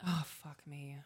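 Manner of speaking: real choked-up whisper; very soft, barely voiced; fighting tears. Real, not acted. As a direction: whisper it to yourself, holding back tears. Fighting tears while speaking to husband.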